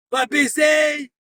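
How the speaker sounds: slow, drawn-out shout of va baiser; shouted taunt. Real, not acted. Streamer taunting a viewer, slow shout. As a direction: bellow it slowly at the chat.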